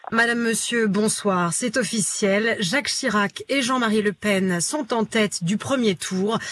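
grave news anchor delivery; sober, weighty newsreader; dramatic news announcement. Shown as a demonstration. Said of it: "Par exemple, si je dis".

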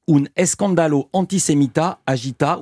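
Spanish accent. Shown as a demonstration. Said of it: "je demande pardon pour mon accent". (lecture avec l'accent espagnol)

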